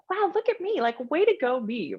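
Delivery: high, gushing pat on your own back; mock self-cheering. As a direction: cheer yourself on like a proud kid. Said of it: "And it's like".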